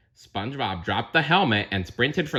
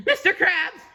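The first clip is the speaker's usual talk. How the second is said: breathless; 4 dB louder than usual. Acted. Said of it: "he said breathlessly".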